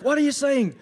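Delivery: very loud, high, urgent mafia henchman; hammed-up mobster yelling the question. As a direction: demand it frantically in a mock mobster voice. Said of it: "I'm gonna do the mafia voice".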